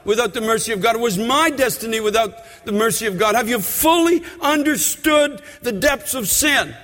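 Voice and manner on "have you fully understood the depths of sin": preaching at full force. Acted. Preacher exhorting the congregation to repent, full force. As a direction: drive it home from the pulpit.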